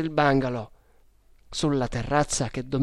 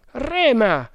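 high, loud order; barked command; 10 semitones higher, 5 dB louder than usual. A narrator's reading. Leader to his oarsman under pursuit, loud high command. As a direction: fire the order out over the oars. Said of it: "comandò lui".

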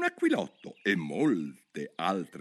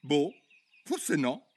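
conciliatory; 7 semitones higher, much slower than usual. Acted. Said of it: "con voce conciliante".

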